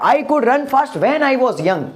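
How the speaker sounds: slow, careful English sentence; slow model sentence. Shown as a demonstration. Teacher models the English sentence slowly for students. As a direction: say each word slowly for the class to copy. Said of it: "तो यहाँ पर क्या हो गया?".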